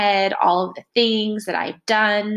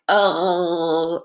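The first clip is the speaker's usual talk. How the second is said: drawn-out expressive oh; a mock dramatic oh; 2 semitones lower, 4 dB louder than usual. Shown as a demonstration. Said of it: "I'm very dramatic".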